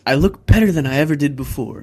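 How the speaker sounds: loud, laughing mock brag; laughing boast. Retelling the wrestler's brag, loud and laughing. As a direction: crow it through a laugh. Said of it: "He goes".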